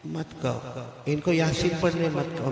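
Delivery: weak whisper-quiet deathbed voice; faint dying plea. Acted. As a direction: speak like a man at his last breath. Dying student pleads faintly.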